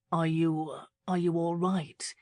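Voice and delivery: stumbling, unsure question; a man hesitantly checking on a woman he cares for. Acted. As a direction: ask haltingly, not sure how she'll take it. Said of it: "he asked hesitantly".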